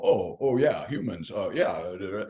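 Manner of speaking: dazed, slow dawning stammer; mock someone whose memory just came back; imitating a dazed friend. Friend suddenly remembering people, lightly mocked as dazed. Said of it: "they're like".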